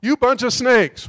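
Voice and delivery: Jesus scolding the Pharisees. Retold or imitated. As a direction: rebuke them slowly and hard. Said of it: "He called them snakes".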